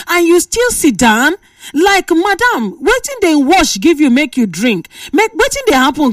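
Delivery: high, disbelieving questions; stunned radio host demanding answers; incredulous. Real, not acted. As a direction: ask like you can't believe she stayed. Host scolds woman in story.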